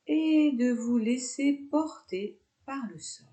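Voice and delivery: calm yoga nidra guidance with long pauses; guided meditation. Real, not acted. Yoga teacher guiding students lying down with eyes closed, guided meditation. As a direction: lead them into relaxation, phrase by unhurried phrase.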